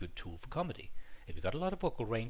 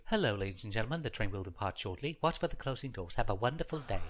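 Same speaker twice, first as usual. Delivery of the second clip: clear announcer. Retold or imitated. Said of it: "They very clearly tell you".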